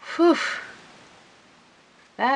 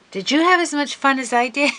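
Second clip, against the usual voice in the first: laughing; 7 semitones higher, 5 dB louder, faster than usual. Real, not acted. Giggling at the mishap.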